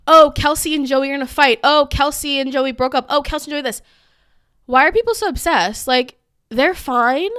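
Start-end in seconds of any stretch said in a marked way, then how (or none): 0.1-3.8 mocking gossip. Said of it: "can people stop with these whole".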